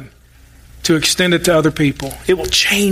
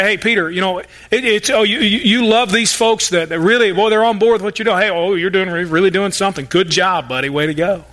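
sarcastic praise. Retold or imitated. Preacher imagining Jesus teasing Peter, sarcastic. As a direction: pretend to be impressed, with dry sarcasm. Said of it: "almost hear the sarcasm in his voice".

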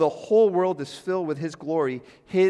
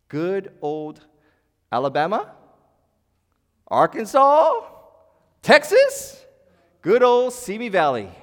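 much higher, louder mocking cry on each place; sarcastic exclamation; 7 semitones higher, 10 dB louder, slower than usual. Real, not acted. Pastor mocking racist hometowns, loud sarcastic cry. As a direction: hurl the names out with bitter irony.

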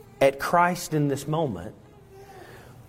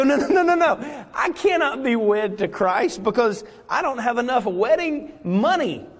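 panicked believer; 8 semitones higher than usual. Acted. Believer protests to Christ.

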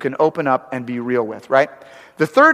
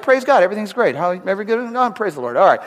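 mock churchy cheer; 4 semitones higher, faster than usual. Mocking churchy public face.

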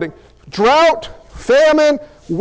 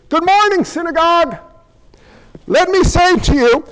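raised preacher's voice to a congregation; mock sermon; 4 semitones higher than usual. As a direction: proclaim it high with punched, spaced words. Acted sermon in Jesus' voice.

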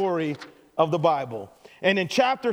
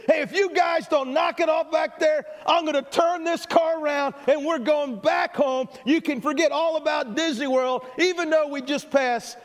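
exasperated dad shout; 5 semitones higher than usual. Retold or imitated. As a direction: bark the empty threat. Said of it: "famous worn-out line".

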